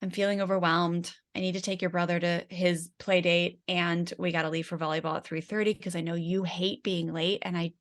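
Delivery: calm redo. Retold or imitated. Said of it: "the redo was like".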